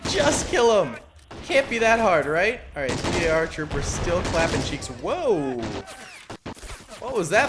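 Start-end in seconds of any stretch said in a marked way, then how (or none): 0.1-3.2 a second, slightly calmer shout; frustrated yell. Real, not acted. Yelling at his units.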